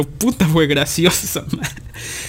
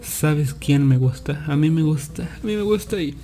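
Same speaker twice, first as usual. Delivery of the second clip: mock sexy; 5 dB quieter than usual. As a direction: draw it out coyly, a little hushed. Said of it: "como más sexosa, por así decirlo".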